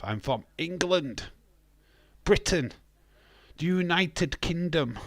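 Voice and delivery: each place name set apart and punched; emphatic spelling-out. Real, not acted. Streamer correcting a confused viewer, emphatic and spelt out. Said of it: "Listen to the words that come out".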